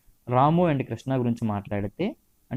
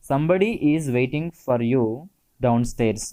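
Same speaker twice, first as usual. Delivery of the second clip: slow dictation; much slower than usual. Shown as a demonstration. Teacher dictating example sentence.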